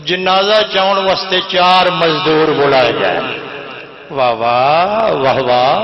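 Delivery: chanted majlis verse; poetry recital. Acted. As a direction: recite the rubai to the gathering.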